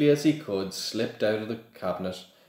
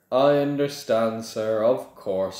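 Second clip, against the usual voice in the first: fawning shopkeeper; 3 semitones higher, 4 dB louder than usual. Acted. Borgin fawns.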